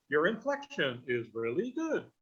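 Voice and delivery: swooping pitch on "inflection" and "good"; sing-song lift and fall through "inflection is really good"; exaggerated inflection. Shown as a demonstration. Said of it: "your voice kinda goes up and down".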